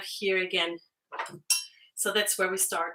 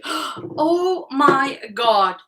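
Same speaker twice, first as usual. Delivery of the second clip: surprised gasp; 5 semitones higher, 6 dB louder, much slower than usual. Real, not acted. Surprised by a viewer donation.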